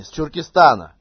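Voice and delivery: to someone hard of hearing. Pretend. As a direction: raise the voice on «Чуркистана» for a deaf listener. Repeats again to deaf grandpa. (громче, для глуховатого собеседника)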